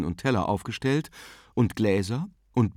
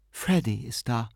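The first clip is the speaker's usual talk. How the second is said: gentle announcement. A narrator's reading. Aunt back from the stairs with news, gently announcing. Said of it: "verkündete sanft".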